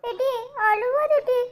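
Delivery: a touch of whimpering; crying apology. Acted. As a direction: plead with a friend through acted tears. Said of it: "நீ எதுக்குடி அழுற".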